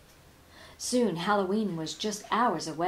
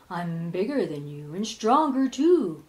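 boastful ghost; 3 semitones lower, 5 dB louder than usual. Acted. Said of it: "boasted the ghost".

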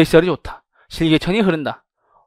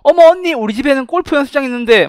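high, loud apartment resident's gushing boast; bragging resident; 8 semitones higher, 5 dB louder than usual. Acted. Resident tells an older girlfriend about her apartment, high gushing brag. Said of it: "말하면서".

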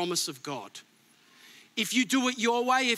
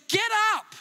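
stern rebuke; 6 semitones higher than usual. Retold or imitated. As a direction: bark it like a stern father rebuking. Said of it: "He doesn't soften. He just goes".

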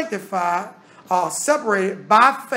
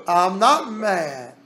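calm reply; 5 semitones lower than usual. Retold or imitated. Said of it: "And you would say".

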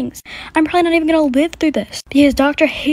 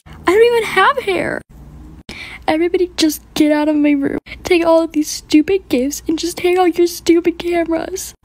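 angry outburst; 5 semitones higher than usual. Acted. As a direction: storm at everyone to get out. Sick kid throws tantrum at gifts.

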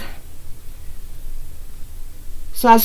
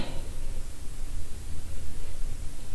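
soft, voiceless chuckle; quiet laugh; 11 dB quieter than usual. Real, not acted. Host amused during the last draw, quiet breathy laugh. Laughs while reading winner's name.

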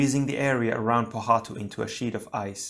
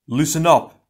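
loud, raised call for attention; higher-pitched commanding shout; 5 semitones higher, 9 dB louder than usual. A narrator's reading. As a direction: shout it out to rally the team. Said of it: "he shouted".

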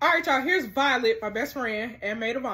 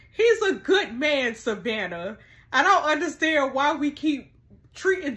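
emotional plea; 3 semitones higher, 5 dB louder than usual. Real, not acted. Defending Joe to the audience.

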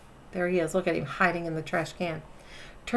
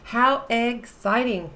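crowed; 2 semitones higher, 3 dB louder, slower than usual. Acted. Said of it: "crowed Rooster".

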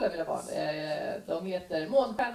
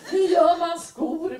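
put-on higher, slow, whiny kid question; child's question; 6 semitones higher, 5 dB louder, slower than usual. Child pestering mom before a gig, slow and high. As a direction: ask it like a curious little kid.

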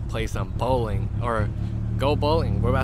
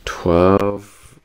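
slow, slightly slurred tipsy talk; 3 semitones lower, 4 dB louder, slower than usual. Real, not acted. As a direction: talk like you've had a few drinks. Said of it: "still tipsy".

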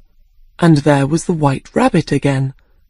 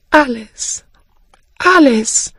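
scolding herself; 7 semitones higher than usual. Acted. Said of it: "she said after some minutes".

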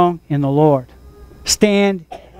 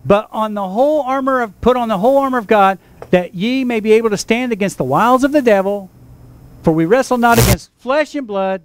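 scripture reading. Real, not acted. Pastor reads the armor of God verses to the congregation, steady reading voice. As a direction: read the armor of God passage to the church.

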